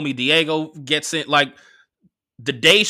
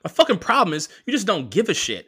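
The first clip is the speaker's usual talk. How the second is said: imitated indignation, pitched up; retold cussing out; 5 semitones higher than usual. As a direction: act out her exasperated comeback in higher pitch. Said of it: "She's cussing me out on the phone".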